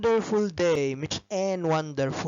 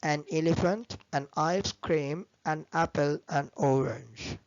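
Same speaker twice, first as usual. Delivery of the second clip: slow model words; much slower than usual. Shown as a demonstration. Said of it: "زي ما أقول".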